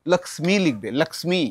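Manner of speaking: লক্ষ্মী as laksmi with a clear m; লক্ষ্মী pronounced laksmi; English spelling pronunciation. Shown as a demonstration. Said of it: "ইংলিশে লেখে কি লিখবে".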